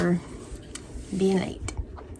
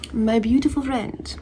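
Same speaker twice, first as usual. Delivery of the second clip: creepy voice; 3 semitones higher, slower than usual. Pretend. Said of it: "Creepy voice".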